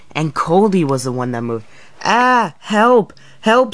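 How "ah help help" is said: high, loud cries for help, caught off guard; startled shouts for help; panicked cries for help. Acted. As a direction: yell for help as you're lifted off the rails. Coldy lifted up by accident.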